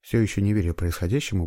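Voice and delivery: ordinary delivery, nothing marked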